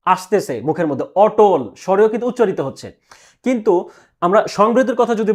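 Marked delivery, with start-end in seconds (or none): 1.2-1.6 অটল with an open "aw" as its first vowel; open-vowel pronunciation. Shown as a demonstration. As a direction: sound the first letter of অটল as a natural open অ. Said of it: "উচ্চারণের সময় কিন্তু স্বরেও".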